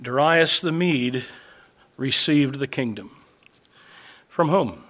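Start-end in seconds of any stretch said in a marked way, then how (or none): 0.0-3.1 slow, weighing each word; "Darius the Mede" spelled out slowly for the congregation; slow and deliberate. Shown as a demonstration. Preacher rereads the verse for emphasis, slowly. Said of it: "Notice, by the way".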